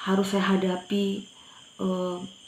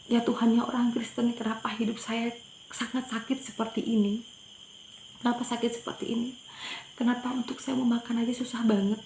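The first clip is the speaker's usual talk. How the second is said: retold plea to God, pitched higher, mildly tearful; tearful prayer; 4 semitones higher than usual. Mother praying to God over her hungry children, mildly tearful. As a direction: plead with God through held-back tears. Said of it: "Saya menangis, saya berdoa".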